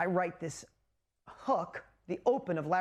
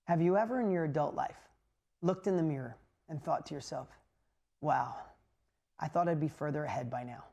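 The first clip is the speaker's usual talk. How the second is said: a hint of a talk show host, lower, with long pauses; Larry King voice; 5 semitones lower than usual. Host asking viewers straight to camera, lightly imitated, low and paused. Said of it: "And Larry says this".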